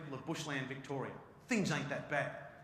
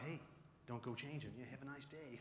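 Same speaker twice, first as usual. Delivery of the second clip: put-on Southern American accent; 3 semitones lower, 14 dB quieter than usual. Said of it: "Southern American, real down home".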